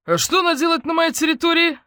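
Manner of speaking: put-on high, loud outraged old colonel; irate colonel demanding answers; indignant colonel. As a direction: bark the question like an affronted retired officer. Indignant colonel confronts neighbours.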